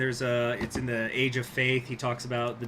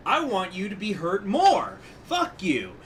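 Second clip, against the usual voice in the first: mock sinner; 6 semitones higher, 4 dB louder than usual. Sinner voiced in retold canto.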